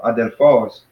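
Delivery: "adelphos" with emphasis on PHOS; last-syllable stress. Shown as a demonstration. Teacher repeating the word to fix the accent, end-stressed. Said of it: "we emphasize the last one".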